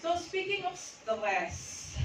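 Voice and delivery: slow, high and stretched; drawn-out opener. Shown as a demonstration. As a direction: stretch it out to hook them.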